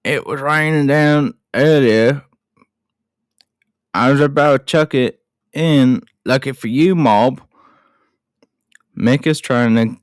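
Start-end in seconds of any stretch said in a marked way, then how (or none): 0.0-2.2 earnest attempt at Australian, a bit higher; Australian accent. Podcaster retries the movie line, amateur Australian accent. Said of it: "that was British more than Australian". 3.9-7.4 put-on Australian accent. Podcaster retries the movie line, amateur Australian accent. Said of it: "that was British more than Australian".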